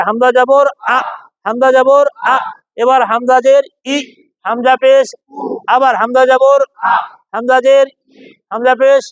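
letter names in rhythm, then a short hard আ or ই; name it, then punch আ and ই short; firm hamza drill. Shown as a demonstration. Teacher leads class in repeating hamza vowels, firm short আ. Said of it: "জোরে".

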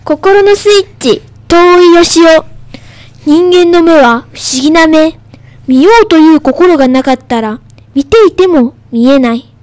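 careful classroom recitation of a poem; reading aloud. Shown as a demonstration. Pupil reads a textbook poem on the radio, reading aloud. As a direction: read it out phrase by phrase. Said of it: "音読のコーナー".

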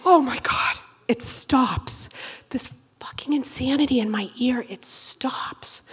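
unvoiced hushed relief; whispered relief. Comic as ear noise stops, whispered relief. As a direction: breathe it out as it finally stops.

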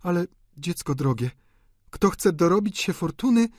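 high female character voice; affectionate lover. A narrator's reading. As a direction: praise fondly, then gently admonish. Delphine's character voice.

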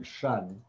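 "shun", the ending of fraction, sh then un; tion as shun. Shown as a demonstration. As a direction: say "shun" as a soft sh plus a short un. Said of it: "the T I O N sound like shun".

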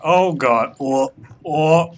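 sudden alarm at the mess. Real, not acted. Toilet water overflowing.

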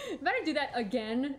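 said through laughter; laughing. Real, not acted. Streamer still laughing from relief, talking through laughter.

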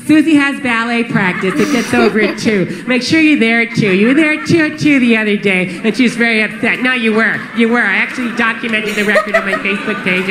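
nagging wife voice. Retold or imitated. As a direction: list chores like a tired wife.

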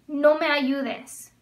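no me ayudes spaced out word by word; slow model phrase. Shown as a demonstration. Teacher modeling a Spanish command for students, slow and clear. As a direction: say it slowly for learners. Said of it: "teacher modeling Spanish command".

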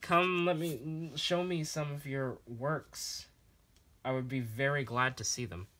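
eager words that accidentally sound insincere; sarcastic-sounding. Real, not acted. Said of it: "sorry if I sounded sarcastic like there".

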